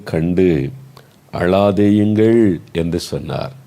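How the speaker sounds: projected, measured Bible reading; scripture reading. Real, not acted. Preacher reading Luke to the congregation, projected and deliberate. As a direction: read out the verse phrase by phrase, with firm pauses. Reads the Bible verse aloud.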